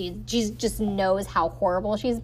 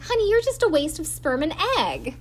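higher, syrupy put-down; mock sweet insult; 7 semitones higher than usual. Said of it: "She's like".

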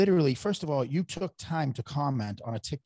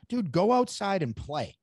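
mock scolding; 5 semitones higher than usual. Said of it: "I'm like".

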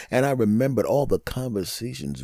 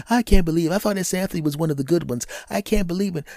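gossiping woman; 6 semitones higher, faster than usual. Retold or imitated. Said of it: "she calls the other women".

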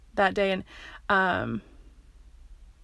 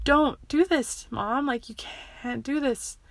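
slow, drawn-out imitation of a child begging; retold tearful pleading; 5 semitones higher, slower than usual. Child begging mom outside school, retold tearful pleading. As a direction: act out a mildly tearful plea, stretched out. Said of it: "I cried and I cried and I cried".

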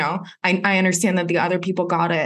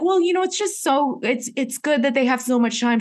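fake cheerful; 6 semitones higher than usual. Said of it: "And I was like".

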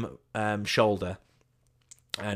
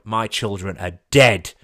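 deadpan comeback; 10 dB louder, slower than usual. Retold or imitated.

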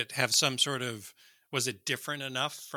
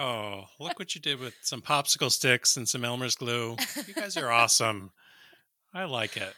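put-on German accent; 5 dB louder than usual. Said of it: "I immediately went to a German accent".

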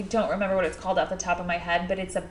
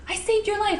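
imitating Bethany; 13 semitones higher than usual. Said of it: "She's like".

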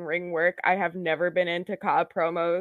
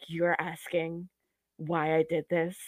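Jeff Cobb promo impression; 4 semitones lower, 4 dB quieter than usual. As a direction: drag it out like a heel cutting a promo. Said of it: "that was a really good Jeff Cobb promo impression".

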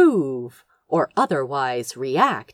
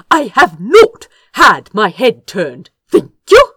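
stung, louder, ending high on a tart thank you; sharp irritation; 4 semitones higher, 8 dB louder than usual. A narrator's reading. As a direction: snap back, irritated at being talked down to. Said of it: "Sharp irritation colored his voice now".

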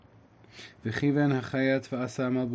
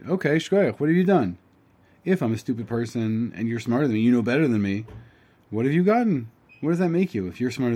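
louder, sarcastic well-done; mock congratulation; 4 dB louder than usual. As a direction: needle him with fake praise. Tam taunting the Chacham.

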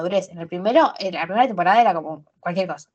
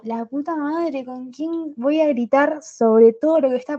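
frustrated outburst; 4 semitones higher, slower than usual. Retold or imitated. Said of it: "yo estaba como".

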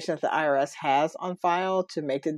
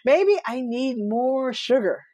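joking aside; 6 semitones higher, slower than usual. Real, not acted. Joking after a laugh.

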